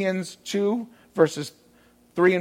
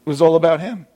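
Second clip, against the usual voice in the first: louder; 7 dB louder, faster than usual. Acted. Preacher driving home his point.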